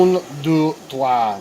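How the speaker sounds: hammed-up French accent, light and showy. Knifemaker counting pins for his viewers, in a playful French accent. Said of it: "why I did a French accent".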